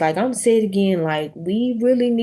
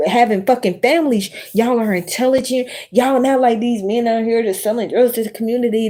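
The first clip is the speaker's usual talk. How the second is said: retold rant; 4 semitones higher, 3 dB louder than usual. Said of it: "I be like".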